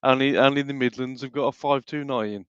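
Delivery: put-on Brummie; Brummie accent. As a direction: brag about the bus like a Brummie. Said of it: "I can do a Brummy accent".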